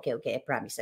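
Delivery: low, soft, sheepish voice; meek little promise. Retold or imitated. Vlogger retelling how she meekly promised the household, soft and sheepish. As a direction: promise it small and hushed, like a scolded kid. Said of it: "Sabi ko".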